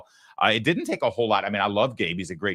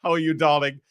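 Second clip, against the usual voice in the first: imitating a suave British accent, higher and louder; teasing British accent; mock British charm; 7 semitones higher, 5 dB louder than usual. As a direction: put on a smooth British "darling". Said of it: "you can say that if you've got an accent".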